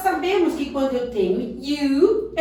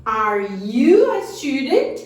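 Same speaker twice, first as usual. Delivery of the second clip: slow model question; 4 dB louder, slower than usual. Shown as a demonstration. Teacher models question slowly.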